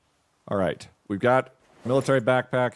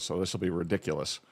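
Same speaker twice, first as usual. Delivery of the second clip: talking with a tissue-plugged nose; blocked nose from a tissue; tissue up one nostril; 4 semitones lower than usual. Real, not acted. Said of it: "I've stuffed a little bit of tissue up my nose".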